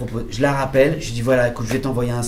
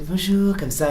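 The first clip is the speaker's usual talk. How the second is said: put-on American accent; 6 semitones higher than usual. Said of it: "avec son petit accent et tout".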